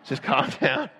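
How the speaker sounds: imitating a wife's low-key calming words. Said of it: "And Lori goes".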